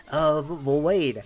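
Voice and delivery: mock a stammering know-it-all correction; imagined objecting viewer. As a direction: butt in as a doubting viewer, lightly put on. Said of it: "I know you're like".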